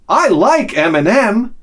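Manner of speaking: slow, high, cheery declaration; imitated girlish enthusiasm; happy Norwegian girl. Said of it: "big smile, like, happy".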